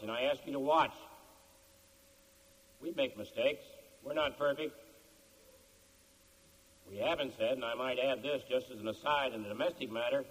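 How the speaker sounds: measured formal stump speech with deliberate pauses; campaign speech. Real, not acted. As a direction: address a crowd in measured phrases, pausing between them.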